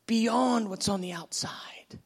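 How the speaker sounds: reassure, then rise in delight; loving bridegroom's affirmation; Jesus loving. Acted. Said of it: "He goes".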